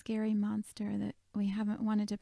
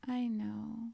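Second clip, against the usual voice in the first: Sadness; 2 semitones higher, slower than usual. Retold or imitated. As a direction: gently comfort a hurting friend. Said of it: "put her arm around her and just said".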